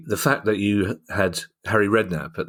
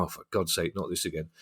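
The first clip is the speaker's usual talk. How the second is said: softly resigned, much quieter aside; weary partner; 2 semitones lower, 9 dB quieter than usual. Acted. Partner answering the fan who told them so, wearily. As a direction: sigh it under your voice as the long-suffering partner.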